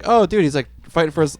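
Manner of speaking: high, surprised realization; a lightly acted gasp of realization; half-hearted high surprise; mock surprise. Champion realizing.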